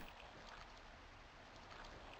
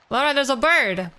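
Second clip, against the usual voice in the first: raised excited call to Laura; 4 semitones higher, 4 dB louder than usual. Real, not acted. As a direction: call out to someone across the room. Calling to Laura.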